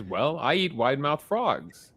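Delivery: slow, menacing alligator punchline setup. Acted. Telling dad's joke, alligator slowly answers the frog. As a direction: drag it out like a lazy predator.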